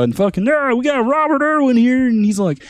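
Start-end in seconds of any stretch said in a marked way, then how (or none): 0.5-2.1 lightly voiced chirpy host, higher; a hint of a late night host welcoming a guest; talk show host. Host announcing the guest, light mock host voice. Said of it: "generic late night talk show host".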